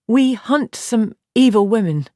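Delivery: slow, measured, careful words. Acted. Nynaeve answering Aviendha's suspicion, slow and careful. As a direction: choose each word with care. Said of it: "Nynaeve said carefully".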